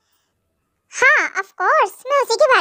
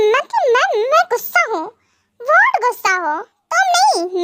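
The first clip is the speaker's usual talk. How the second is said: higher, incredulous outburst; indignant protest; 4 semitones higher than usual. Acted. Husband protesting that he is the angry one. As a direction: protest in disbelief.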